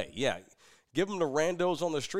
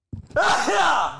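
sneezing; 13 semitones higher, 9 dB louder than usual. Real, not acted. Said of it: "Your, your sneeze faces".

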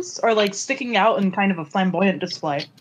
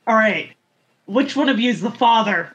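flat deadpan delivery; dead serious, no emotion at all; faster than usual. Acted. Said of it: "say in a completely deadpan voice".

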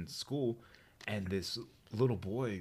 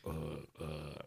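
playing dumb; 4 semitones lower, 7 dB quieter than usual. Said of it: "I just played dumb".

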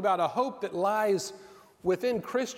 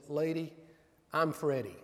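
weary, deflated reply, a bit softer; glum; 3 semitones lower, 4 dB quieter than usual. Retold or imitated. Young father answering the praising woman, glum and worn out. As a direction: let the punchline sag with tired resignation. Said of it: "looked up glumly and said".

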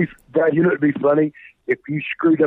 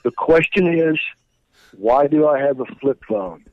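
phone line sound. Real, not acted. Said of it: "I've done this entire interview on a flip phone".

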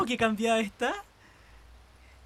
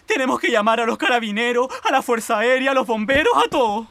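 alarma; 5 dB louder, faster than usual. Acted. Criada alarmada pide ayuda.

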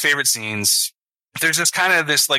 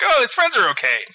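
1 high relieved gush; 10 semitones higher than usual. Retold or imitated. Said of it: "and, like".

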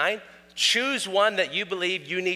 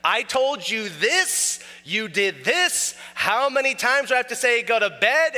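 mock angry father; 5 semitones higher than usual. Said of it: "the wrath of your father comes out".

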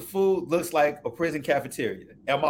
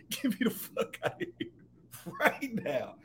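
half-laughed, softer plea to leave; laughing panic; 8 semitones higher, 8 dB quieter than usual. Retold or imitated. To his friend at the club, laughing while begging to leave. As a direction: laugh through the words as you beg to go.

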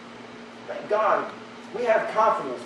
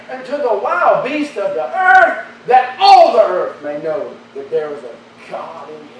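mock biblical prophet; 3 semitones higher, 4 dB louder than usual. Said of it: "he says in verse forty-six".

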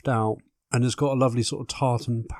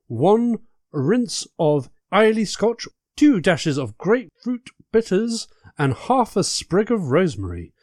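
campy drag queen; 7 semitones higher, 3 dB louder than usual. Acted. Host reads recipe camply.

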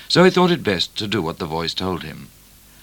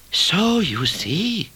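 high, slow character voice; Cat's voice; 10 semitones higher, much slower than usual. A narrator's reading. Cat consoling Midnight, high slow cat voice. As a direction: explain it slowly in a cat's high voice.

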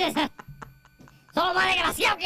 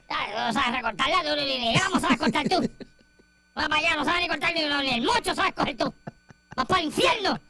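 Nino impression. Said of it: "Eso es lo que dice".

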